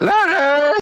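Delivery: put-on drunken cowboy calling out. Playing a drunken cowboy looking for a friend: drunken cowboy calling out. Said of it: "You're a drunken cowboy looking for your friend".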